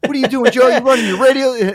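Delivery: high, loud accusing bark; mock yelling boss. Cousin Mike yelling at Joe for running his radio, high and loud. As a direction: bust in on the radio show. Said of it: "He used to yell at me".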